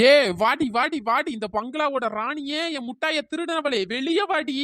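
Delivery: hammed-up taunt like a movie villain; slow, grand mock challenge to the bungalow queen; mock film dialogue. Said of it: "டைலாக்லாம் பேசிட்டு கிடக்காளே".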